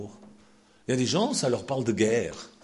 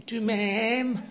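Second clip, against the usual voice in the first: high Swiss French question through a laugh; laughing Swiss accent; 9 semitones higher than usual. Acted. Wife asking her husband again, laughing in a Swiss accent. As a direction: ask it in a Swiss accent, cracking up. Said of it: "Je prends mon accent suisse".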